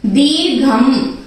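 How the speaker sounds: slow, syllable by syllable दीर्घम; drawn-out syllables. Shown as a demonstration. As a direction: spell out दीर्घम slowly, each syllable apart. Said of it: "तो पहला है दी".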